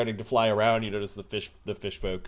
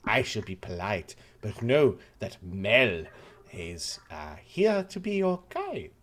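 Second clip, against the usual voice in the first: put-on French accent; 3 semitones lower than usual. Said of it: "trying to figure out his accent".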